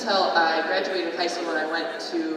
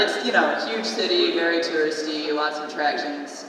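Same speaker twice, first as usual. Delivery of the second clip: deadpan ironic praise, a bit louder; sarcastic joke; 4 dB louder than usual. Acted. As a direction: oversell the small town with mock enthusiasm. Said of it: "that's a joke".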